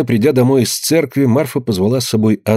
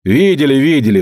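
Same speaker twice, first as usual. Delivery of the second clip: flaring up, higher and sharper; boiling over; 4 semitones higher, 4 dB louder than usual. A narrator's reading. Daughter flaring up at her mother's accusation, heated. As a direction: snap it back as your temper boils. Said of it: "вскипела Анна".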